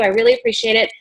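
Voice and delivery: "really" leaps up high in a rush of gratitude; gushing thanks. Shown as a demonstration. Consultant gushing thanks to a prospective hostess, high and bright. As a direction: gush your thanks, voice soaring on "really". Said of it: "here's my lookbook".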